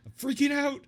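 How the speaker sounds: laughing through the words. Real, not acted. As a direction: giggle it out, mock panic. Mock panic over deep question.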